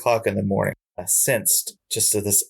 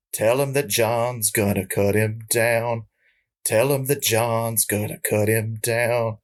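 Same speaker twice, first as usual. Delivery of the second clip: slow, drawn-out intoning of the lyric; fading ghost of a country singer; 3 semitones higher than usual. Retold or imitated. The ghost of a country singer fading away, slow eerie intoning. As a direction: chant it slowly like a voice from beyond. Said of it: "I hear just very lightly as he's going away".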